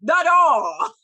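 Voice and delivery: shouts it out at full volume; calls out the doll, loud and excited. Real, not acted. Cohost yelling a reminder about the doll, loud excited shout.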